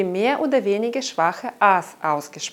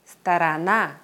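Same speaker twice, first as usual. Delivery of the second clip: "сторона" with weak o's and a long final NA; stress on third syllable; 4 semitones lower than usual. Shown as a demonstration. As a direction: hit the last syllable of "сторона". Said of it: "Dritte Silbe".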